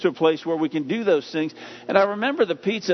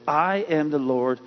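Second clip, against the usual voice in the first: solemn voice of God; 3 semitones lower than usual. Acted.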